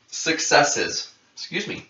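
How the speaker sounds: talking through the hiccups. Real, not acted. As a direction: hiccup breaking the words. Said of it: "I have the hiccups".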